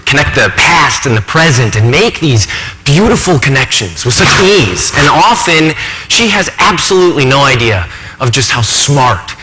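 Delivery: earnest, lively professor confiding in the audience; exasperated, admiring academic in a stage monologue; animated college professor. Acted. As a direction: think aloud with swings of pitch and emphasis.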